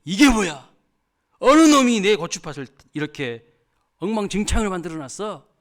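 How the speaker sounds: 밭 주인의 성난 고함을 흉내; loud, high outraged yell, acted out; 고래고래 고함. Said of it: "고래고래 막 지렀습니다". (화나서 고래고래 소리치듯)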